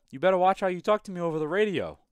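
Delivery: fast, high, loud put-on Jamaican accent; Jamaican accent impression. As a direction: warn someone off in a mock Jamaican accent. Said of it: "me doing my best impression of what he said".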